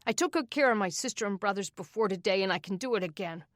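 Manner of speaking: rising to a furious shout; snapping back at the adults, building to a yell; angry boy. Acted. Angry orphan boy refusing help.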